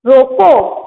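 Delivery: रोको set apart, then a stop; pause after रोको. Shown as a demonstration. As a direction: say रोको alone and halt at the comma. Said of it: "अल्प विराम लगा है".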